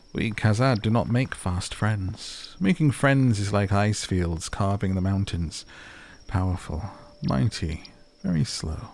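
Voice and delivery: slow, weighty dwarf voice; measured and proud, each phrase given its time; solemn dwarf. Acted.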